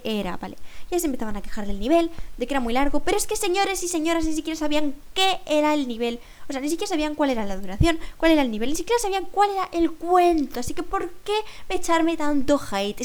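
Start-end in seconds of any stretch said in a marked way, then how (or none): 3.0-13.0 indignant rant, pitched higher. Real, not acted. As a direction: protest at unfair complaints in a higher voice. Indignada por las quejas de padres.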